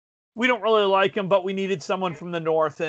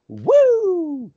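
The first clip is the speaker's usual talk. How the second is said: high, loud wrestler woo; Ric Flair woo; 11 semitones higher, 6 dB louder than usual. Pretend.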